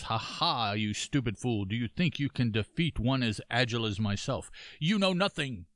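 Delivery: lightly voiced boastful ninja; a hint of a taunting ninja, pitch rising at the end; leaping ninja voice. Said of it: "that's my leaping ninja voice".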